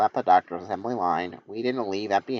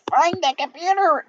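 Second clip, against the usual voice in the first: much higher, louder attempt at the croc; trying Vector's voice; 4 dB louder than usual. Reader attempts Vector's voice on a shouted order, high and loud. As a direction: give the croc a shot and yell it. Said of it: "I'll try".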